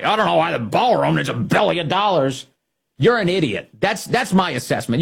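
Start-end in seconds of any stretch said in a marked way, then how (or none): 0.0-2.5 a lightly voiced dopey senator, mock-innocent; a hint of a whiny politician voice; mocking quote. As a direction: parrot them as if clueless. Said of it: "Senate Republicans play along with the media lie".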